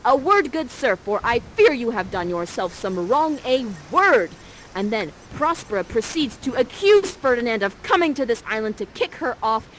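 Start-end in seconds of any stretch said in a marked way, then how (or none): 0.0-4.3 a touch louder, stern protective mother. Acted. Prospera confronting Ferdinand, in a mildly loud stern voice. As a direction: warn him off, firmly. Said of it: "you're like this".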